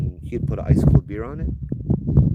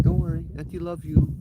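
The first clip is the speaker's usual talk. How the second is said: flighty eccentric aunt; 9 semitones higher than usual. Retold or imitated.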